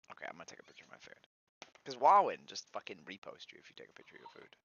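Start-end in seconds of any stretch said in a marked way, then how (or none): 0.1-1.2 muttering. Real, not acted. Mutters to self, rushed.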